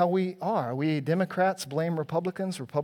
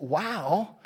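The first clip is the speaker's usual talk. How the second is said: a hammed-up bright little cheer, the reaction he did not have; mock cheerful cheer; 4 semitones higher, 3 dB louder than usual. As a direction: toss it off as a mock happy hooray. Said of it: "His response isn't".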